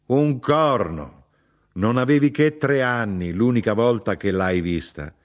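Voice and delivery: scornful contradiction. Acted. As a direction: dismiss it forcefully as a mother would. Mother sharply contradicts her son.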